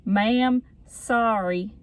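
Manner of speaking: slow, stretched attempt at a Southern accent. Reading out a creepy boy's message to mom, attempted Southern accent. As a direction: try out a drawn-out Southern drawl. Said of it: "I could read it and do a Southern accent".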